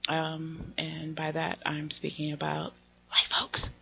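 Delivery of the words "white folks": hushed, as if not to be overheard; whispering. Real, not acted. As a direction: drop to a near-whisper. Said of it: "I don't know why I'm whispering that".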